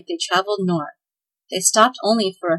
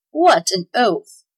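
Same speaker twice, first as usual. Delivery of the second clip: grumbled; 4 dB louder, much slower than usual. Acted. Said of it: "grumbled Tweedlenees".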